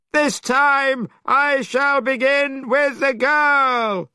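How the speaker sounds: very high, loud, slow demon voice; monster king. A narrator's reading. Great king demanding the boy's family, high and loud. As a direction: boom out the question like a monster.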